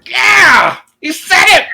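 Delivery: high, loud cheer as an excited little companion; very high-pitched triumphant shout; excited squeal. Acted. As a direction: squeal it out, thrilled. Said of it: "And Lulu's like".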